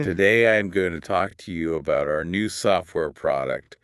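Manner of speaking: flat, droning robot voice; monotone robot impression. Shown as a demonstration. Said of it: "I'll do my best robot impression".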